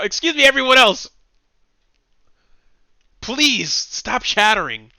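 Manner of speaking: high, pleading mock protester; hammed-up prissy plea to the crowd; mock whiny complaint. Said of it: "that's my problem right now".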